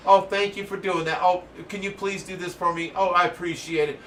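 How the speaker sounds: sugary, put-on politeness; mock pleasantries. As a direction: parody someone being overly courteous. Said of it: "I don't have time for pleasantries".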